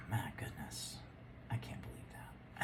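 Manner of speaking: barely voiced, half to herself; awed whisper. Real, not acted. Reader whispering in awe at her cards.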